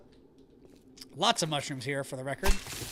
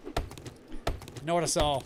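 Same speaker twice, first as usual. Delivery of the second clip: drawn out, lower and softer; slow and quiet; 3 semitones lower, 3 dB quieter, much slower than usual. Shown as a demonstration. Repeating her own line, slower and softer this time. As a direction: let each word sink in slowly. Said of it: "repeats the line slower, lower".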